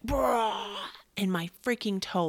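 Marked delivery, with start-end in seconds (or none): 0.0-0.8 spelt-out whirring bike noise, louder burst; imitated bike noise. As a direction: imitate a bike pedal spinning hard. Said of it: "bike was just like".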